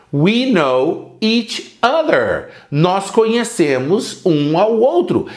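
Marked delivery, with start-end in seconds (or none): 0.1-2.5 We know each other spelled out slowly for learners; slow it right down so they can copy; a teacher's slow repeat-after-me; slow, careful model sentence. Shown as a demonstration.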